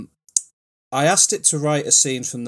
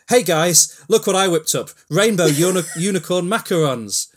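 excited pastry chef; 6 semitones higher, 5 dB louder than usual. Acted. Marcus shows off macarons.

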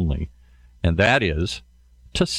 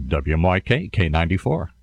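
low radio-announcer voice; radio station ID; 4 semitones lower than usual. Shown as a demonstration. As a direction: give the call letters down low, like a DJ. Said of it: "have to get my voice down here".

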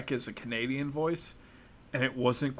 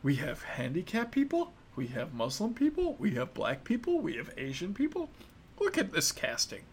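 mock corporate brag; 5 semitones higher than usual. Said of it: "and they're like".

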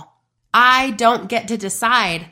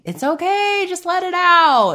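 coaching herself to cry; 9 semitones higher than usual. Retold or imitated. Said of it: "So I'm constantly telling myself".

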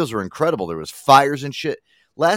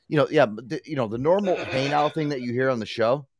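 ordinary delivery

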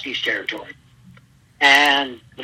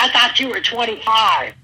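higher, louder accusing trainer voice; imitating Cornette; 7 semitones higher, 4 dB louder than usual. Trainer confronting the older recruit, mock indignant. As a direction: act out the trainer's shock. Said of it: "He said".

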